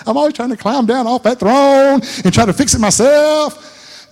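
fervent preaching. Real, not acted. Preacher climbing to a high point.

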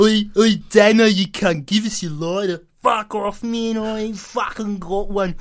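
hammed-up Australian row between mates; Daryl and Damo. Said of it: "Daryl and Damo".

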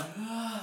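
big exhaled mock yawn; imitated yawn. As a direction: act out a yawn mid-story. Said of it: "I fucking yawn".

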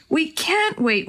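high, slow plea; pleading. Acted. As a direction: beg them not to wait. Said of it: "Willie pleaded".

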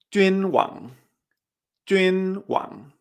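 "Junwang" as jüin high and level, wang rising; first then second tone. Shown as a demonstration. Teacher modelling Chinese for king, "Junwang" high then rising. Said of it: "Primer tono y después segundo".

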